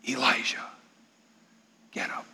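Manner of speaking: soft, hushed calling of a name; God's soft whisper. Acted. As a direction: gently wake him with a hush. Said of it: "The sound of a gentle whisper".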